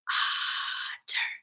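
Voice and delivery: very soft, voiceless otter, first syllable held; whispered otter. Shown as a demonstration. Teacher asking pupils to whisper with her, whispered otter. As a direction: whisper otter in two separate beats. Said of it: "Whisper with me".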